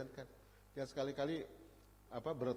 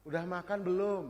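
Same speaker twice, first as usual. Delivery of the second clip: higher and louder, a shrill scolding ask; nagging high-pitched mother; 6 semitones higher, 8 dB louder than usual. Retold or imitated. Mother nagging her child about eating, higher and louder. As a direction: fire the question like an order. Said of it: "antara bertanya, menyatakan sama menyuruh sama nadanya".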